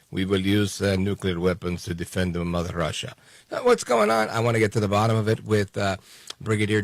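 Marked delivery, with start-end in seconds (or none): 0.1-3.1 lower, heavy put-on Putin voice; mock Putin. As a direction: growl the threat like a cartoon Russian leader. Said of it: "Vladimir Putin turns around and says".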